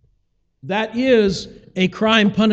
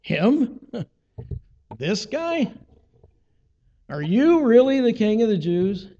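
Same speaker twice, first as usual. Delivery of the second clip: confused disbelief. Retold or imitated. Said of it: "Pilate was maybe a little confused".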